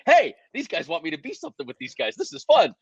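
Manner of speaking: rising with glee to a high "fun"; remembering the thrill; light excited inner voice. Retold or imitated. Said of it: "I was like".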